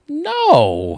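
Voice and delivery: high, loud no; woman's sharp no. Acted. Woman in elevator refusing, high loud no. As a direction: snap it high.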